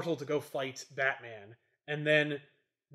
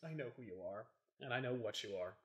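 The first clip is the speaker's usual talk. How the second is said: low menacing Batman; 5 semitones lower, 14 dB quieter than usual. Retold or imitated. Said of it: "Batman's like".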